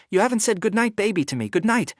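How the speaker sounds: high, pushy tipsy whine; drunken whining. Retold or imitated. Drunk narrator whining on the phone.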